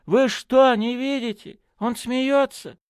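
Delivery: very high-pitched, urgent exclaiming; excited cry. A narrator's reading. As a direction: cry out, amazed they cannot see it. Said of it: "закричал Браун". (взволнованный крик высоким голосом)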